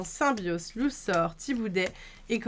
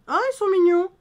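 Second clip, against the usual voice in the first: excited; 9 semitones higher, 7 dB louder, faster than usual. Real, not acted. Gushing over cute card art.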